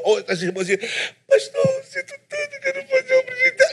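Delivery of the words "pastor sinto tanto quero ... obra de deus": much higher, weepy imitated sob over the words; mock crying sister. Preacher imitating a crying sister begging the pastor, mock sobbing. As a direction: play a tearful church sister pleading. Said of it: "a gente chega chorando".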